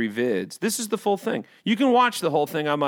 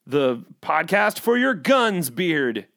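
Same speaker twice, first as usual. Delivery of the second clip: slow, gruff-styled intro; lightly mocking bro podcast intro; macho podcast host; slower than usual. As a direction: announce it like a tough-guy show.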